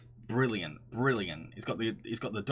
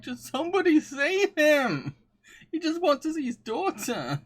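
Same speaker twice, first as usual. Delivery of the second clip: desperate plea; 6 dB louder than usual. Retold or imitated. Viewer pleading for the dad in the film, high and loud. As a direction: beg someone to save him. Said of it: "I was just kind of like".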